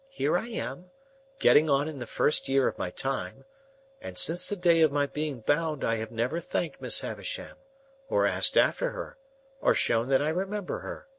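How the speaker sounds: put-on a young apprentice; young Pip. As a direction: plead as an earnest boy.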